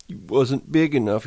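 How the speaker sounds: a big simple man mourning his pup; Lenny, grieving. Acted. Lenny talks sadly to the dead pup.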